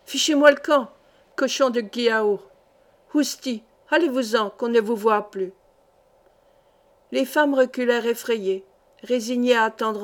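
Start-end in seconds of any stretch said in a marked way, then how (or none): 0.1-5.5 swearing gendarme. Acted. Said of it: "en poussant des jurons".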